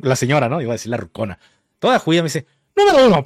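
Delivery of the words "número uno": high mock yell; imitated shouting. Clerk to customer, in a high imitated shout. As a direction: imitate a clerk yelling out a point. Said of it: "pero así lo-, gritando".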